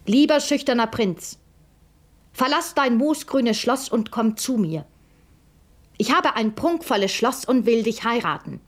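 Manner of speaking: princess dictating letter. Acted. Princess's letter read aloud.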